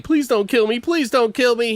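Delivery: high begging voice; scared pleading. Retold or imitated. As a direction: plead for your life. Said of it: "He's like".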